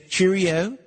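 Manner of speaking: put-on "cheerio" tried in a playful British accent, rising at the end; a cheeky stab at English "cheerio"; a host trying out British slang for a Manchester caller; mock British cheerio. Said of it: "as they say".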